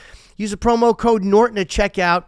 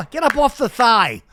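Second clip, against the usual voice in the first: higher, louder barked order; mock command; 6 semitones higher, 5 dB louder than usual. Ordering his lazy penis up, mock-commanding shout. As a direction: yell it like a comic drill order.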